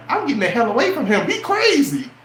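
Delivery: high squeaky mock woman, laughing through it; hammed-up high girly voice; mocking woman's voice. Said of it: "you gonna be like".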